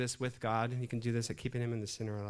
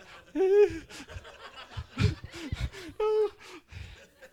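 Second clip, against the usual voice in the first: high, drawn-out comic moaning; mock whimper; 5 dB louder than usual. Patient hearing the doctor doubt the tools, mock whimper. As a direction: whimper like a worried patient, hammed-up. Imitates himself on the table.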